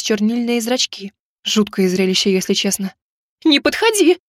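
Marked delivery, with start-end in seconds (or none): 3.4-4.2 higher, louder scared cry; frightened squeal. A narrator's reading. Girl backing away squeals at the wolf, high and loud. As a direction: shriek at the wolf. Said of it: "испуганно взвизгнула я".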